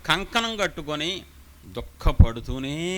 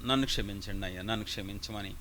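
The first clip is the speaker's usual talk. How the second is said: weeping plea; 7 semitones lower, 6 dB quieter, faster than usual. Acted. Samuel weeping, begging forgiveness.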